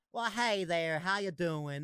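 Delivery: lightly hammed-up Southern drawl greeting; a rough go at Southern twang; stereotypical Southern twang. Shown as a demonstration. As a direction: try an amateur stock Southern accent. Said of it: "the stereotypical".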